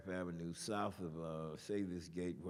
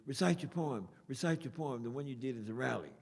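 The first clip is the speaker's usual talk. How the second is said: urging; 4 semitones higher, 4 dB louder than usual. Retold or imitated. Friend urging him to recite.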